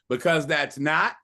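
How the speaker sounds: slow, deliberate model for a group to copy; measured lead-in, held open at the end; repeat after me. Shown as a demonstration. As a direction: space the words out for repeating. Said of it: "repeat after me".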